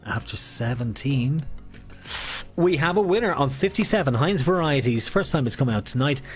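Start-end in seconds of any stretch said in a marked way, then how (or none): 0.1-5.1 bingo caller. Acted. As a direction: announce the winner to the hall. Calling next winner.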